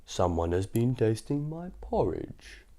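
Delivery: slow heavy papa bear; big papa bear voice. Acted. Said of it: "in his great big voice".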